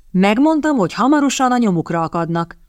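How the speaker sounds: smug I-told-you-so, lifted on the first word; pleased with being proved right; smug mockery. A narrator's reading. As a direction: gloat a little, mildly mocking. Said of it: "gúnyos elégedettséggel".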